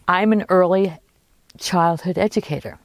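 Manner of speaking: mildly excited, imitating her; a touch of eager pride after a gasp. Woman finally telling a stranger her job, mildly excited. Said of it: "So she was excited".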